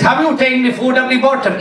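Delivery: mock Indian doctor; Indian accent. Doctor questioning his patient, Indian accent. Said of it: "He was an Indian doctor".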